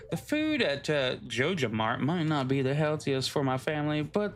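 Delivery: lightly hammed NPC read; voiced villager. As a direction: read it like a chirpy townsperson. Reading NPC dialogue in voice.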